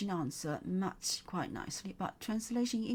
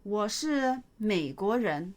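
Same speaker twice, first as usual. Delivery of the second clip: slow model reading; 4 dB louder than usual. Shown as a demonstration. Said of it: "teacher models sentence slowly".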